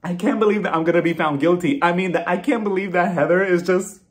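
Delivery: high, mildly wailed imitation; a touch of put-on tearful screaming; mock crying outburst. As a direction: start high and loud in half-hearted hysterics. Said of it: "she starts screaming and starts crying".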